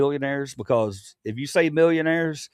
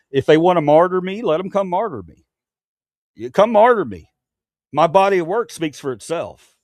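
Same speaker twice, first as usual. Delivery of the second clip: louder defiant challenge; 3 semitones higher, 5 dB louder than usual. Real, not acted. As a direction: dare them to come. Defiant rant to chat.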